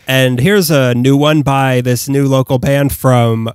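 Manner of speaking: slow, drawn-out DJ announcer voice; old radio DJ. Pretend. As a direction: announce the band like a radio jock. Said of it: "old radio D J voice".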